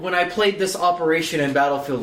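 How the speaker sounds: laughing while talking; amused, laughing through it. Real, not acted. Laughing retelling.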